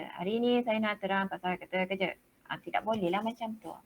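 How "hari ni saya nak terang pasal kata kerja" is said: one flat tone on every word; monotone. Shown as a demonstration. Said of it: "Satu tone je".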